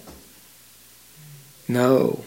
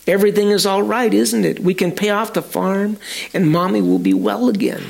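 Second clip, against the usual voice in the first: put-on higher and quicker, eager child voice; excited child; 4 semitones higher than usual. Child to Daddy at breakfast, eagerly excited. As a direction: bubble over with hope. Child asks father hopefully.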